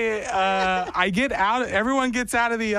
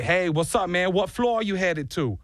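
lightly attempted Jersey accent; bad Jersey accent. Stranger greets him in the elevator, bad Jersey accent. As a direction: have a half-hearted go at Jersey. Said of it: "probably a bad Jersey accent".

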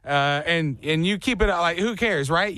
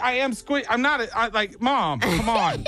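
put-on embarrassed kid; 7 semitones higher than usual. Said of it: "My squishy baby".

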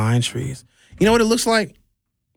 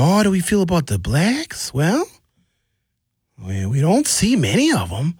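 put-on Wisconsin accent; 4 semitones higher than usual. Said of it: "He had that heavy Wisconsin accent".

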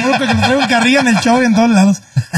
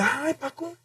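wife's mild reproach; 7 dB quieter than usual. Retold or imitated. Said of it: "mi vieja me dice".

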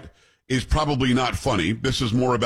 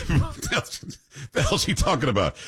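laughing disbelief; 3 semitones higher than usual. Real, not acted. Reacting to the clip with a laugh.

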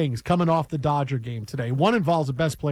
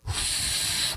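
imitated sigh; 6 dB quieter than usual. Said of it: "and he goes".

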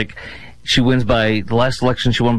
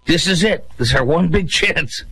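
mock desperate hype; 4 semitones higher than usual. Mocking Democrats' mantra.

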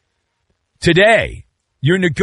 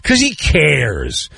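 amateur psychologist crowd; 5 semitones higher than usual. Acted. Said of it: "amateur psychologist crowd are like".

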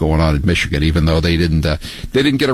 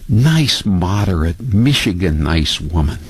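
sarcastic. Retold or imitated. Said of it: "she's being portrayed in ... as some kind of a".

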